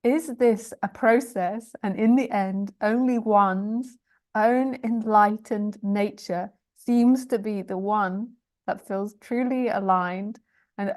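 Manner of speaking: slow, deliberate reading, phrase by phrase; careful re-reading. Real, not acted. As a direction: pick through the tangled sentence slowly. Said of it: "Okay, I'll try again".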